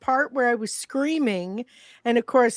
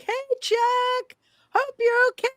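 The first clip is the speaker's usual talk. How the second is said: high yell with a cracking voice; 13 semitones higher than usual. Retold or imitated. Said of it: "my voice cracked".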